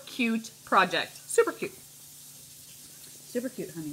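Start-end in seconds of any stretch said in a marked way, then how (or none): 1.2-1.7 squealed. Real, not acted. Gushing over project. 1.7-3.9 whispered, very slow and soft; a hushed, drawn-out aside. Real, not acted.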